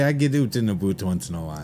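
quick, hammed-up Canadian vowels; Canadian "oot" and "aboot"; mock Canadian accent. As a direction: rattle it off in a playful Canadian accent. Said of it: "Californians have an accent".

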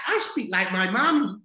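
high, loud imitation of an Irish child; little girl's Irish accent. Granddaughter explaining herself to granddad, high Irish-accented child voice. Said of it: "like, with an Irish accent".

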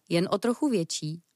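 usual speaking voice

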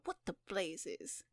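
slow, astonished murmur; stunned, drawn-out protest; gasped bewilderment. Acted. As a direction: trail out in disbelief. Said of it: "gasped Mister Trevor".

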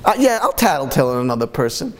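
quick, glib, offhand yes to betrayal; breezy mock agreement; mock casual volunteer. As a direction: rattle it off like it's nothing. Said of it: "What type of person would say".

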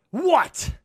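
high, loud, rude "What?" barked at the door; a sharp, hostile "What?" at a stranger at the door; rude snapped what. Retold or imitated. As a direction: snap "What?" like an annoyed tenant. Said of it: "what you don't do is what".

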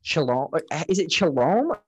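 Chalom said shuh-LOME, questioning; unsure pronunciation. Real, not acted. Host guessing a player's last name, unsure pronunciation. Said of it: "I don't know how to say".

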